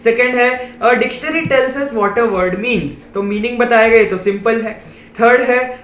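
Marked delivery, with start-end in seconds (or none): 0.8-2.9 slow, deliberate reading of a definition; slow read-aloud. Shown as a demonstration. Teacher slowly reading the dictionary definition to pupils. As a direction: spell out each word for the class.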